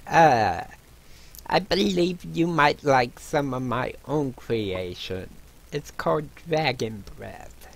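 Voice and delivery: hint of a dwarf tavern keeper; lightly voiced dwarf innkeeper. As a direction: lightly play a proud dwarven brewer.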